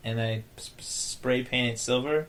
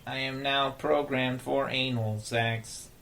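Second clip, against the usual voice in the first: robot voice; slower than usual. Pretend. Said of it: "robot play, slow".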